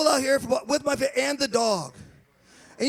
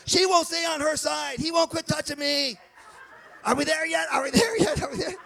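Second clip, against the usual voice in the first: put-on kids; 4 semitones higher than usual. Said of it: "the kids are on the deck like".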